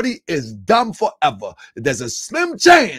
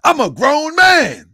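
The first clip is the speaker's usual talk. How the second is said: mocking quote; 7 semitones higher, 6 dB louder than usual. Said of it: "That's what boys with mustaches say".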